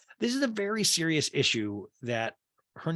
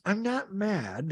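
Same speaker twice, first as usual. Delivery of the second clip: slow, higher mock denial; Meredith; 5 semitones higher, much slower than usual. Meredith insists as the counter rises, slow imitation. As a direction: draw the denial out. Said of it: "And Meredith goes".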